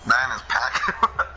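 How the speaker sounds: drawn-out Boston accent, breaking into a laugh. Shown as a demonstration. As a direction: slowly echo a slight Boston accent, amused. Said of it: "like I had a Boston accent".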